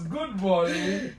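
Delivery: slow, loud, stretched good morning; drawn-out greeting. Real, not acted. Host greeting viewers and his guest, slow loud cheer. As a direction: savour the greeting for the camera.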